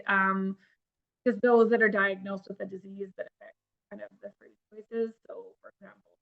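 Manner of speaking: choppy, dropping connection; voice cutting out. Real, not acted. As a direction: signal fading in and out. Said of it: "is cutting in and out a little bit".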